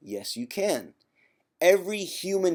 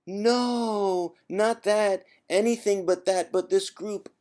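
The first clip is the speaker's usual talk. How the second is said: mock pleading; 7 semitones higher, slower than usual. Mock pleading of forum members.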